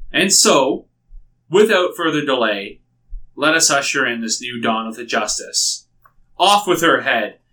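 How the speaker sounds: lightly voiced regal queen, proclaiming; queen's speech. Queen Iliosa addressing her people before the execution, a hint of a regal speech. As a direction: address the crowd like a smug queen.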